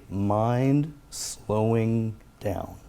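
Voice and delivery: very slow, soothing self-talk; warm tone. Shown as a demonstration. Speaker calming themself on the out-breath, very slow warm tone. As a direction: draw each word right out, warmly. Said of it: "in a warm tone of voice".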